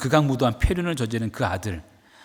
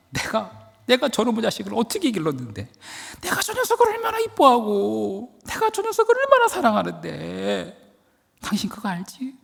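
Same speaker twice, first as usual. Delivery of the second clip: much higher, gushing father's confession; doting father; 9 semitones higher than usual. Acted. Father confides to wife his love for son, much higher and gushing. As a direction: pour out a father's fond love. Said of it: "그제서 아버지가 이렇게 말합니다".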